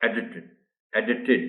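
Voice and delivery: "ایڈیٹڈ" with the first e stressed and -id at the end. Shown as a demonstration. Teacher models "ایڈیٹڈ" stress for pupils, clear first e. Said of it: "آپ کو ای پر stress".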